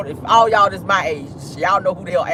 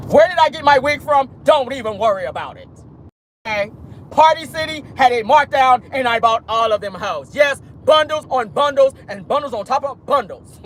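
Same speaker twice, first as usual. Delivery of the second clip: mocking the wig wearer; 4 semitones higher than usual.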